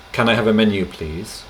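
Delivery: "Can I have a menu" said flat and direct; a customer ordering the waiter; blunt order. Shown as a demonstration. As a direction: demand it a little bluntly. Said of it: "which sounds a bit rough, like an order".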